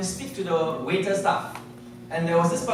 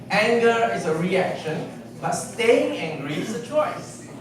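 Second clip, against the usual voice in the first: slower, every word set apart; slow, deliberate repeat; 2 semitones higher, slower than usual. Shown as a demonstration. Speaker repeating the motto to the audience, slow and deliberate. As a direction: repeat it slowly so it sinks in. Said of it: "What's that again?".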